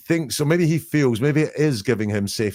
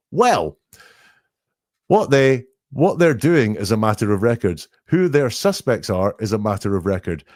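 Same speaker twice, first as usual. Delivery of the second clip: loud, defensive retort; defensive, louder; 4 dB louder than usual. Retold or imitated. Suspect answering the journalist, louder and defensive. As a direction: push back hard, louder than the question. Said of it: "just his standard way of doing it".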